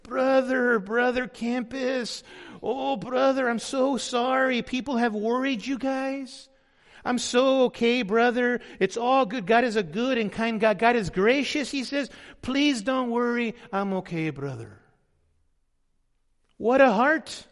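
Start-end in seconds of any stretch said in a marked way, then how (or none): 0.0-11.7 put-on slow, drawn-out Latino-accented reassurance; strong Latino accent. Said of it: "he had a strong accent". 12.4-14.8 lightly imitated Latino accent, falling softer; strong Latino accent. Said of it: "he had a strong accent".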